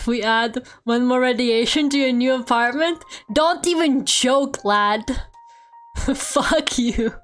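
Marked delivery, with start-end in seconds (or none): 3.3-5.0 slow, deliberately bad British accent on "Don't even joke, lad"; hammed-up British slang, drawn out. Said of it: "in a really bad British accent".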